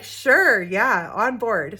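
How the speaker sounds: eager agreement. Retold or imitated. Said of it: "they were like".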